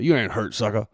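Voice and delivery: lightly imitated coach's put-down; a hint of the old coach dismissing a player. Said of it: "And he'd call 'em, uh, a sucker".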